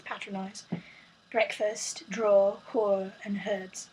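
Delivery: a weak, patchy British accent on the word list; attempted British accent. Shown as a demonstration. Reading the word list again in a bad British accent. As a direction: try a British accent and mostly miss. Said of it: "and now in the British accent".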